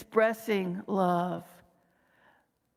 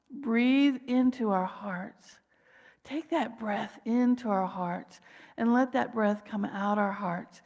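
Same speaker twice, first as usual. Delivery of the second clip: slow breathing guide. Shown as a demonstration. Speaker leading listeners to breathe, slow and calm. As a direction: breathe slowly into the heart.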